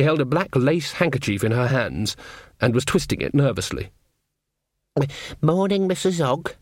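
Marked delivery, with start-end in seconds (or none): 5.4-6.5 higher, lightly nervous greeting; worried young witch. A narrator's reading. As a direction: greet an elder timidly, in a raised voice. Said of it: "looked worried under her makeup".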